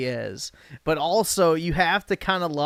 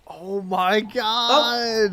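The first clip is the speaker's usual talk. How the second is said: disbelief; 5 semitones higher, much slower than usual. Real, not acted. Reacting in disbelief to clip.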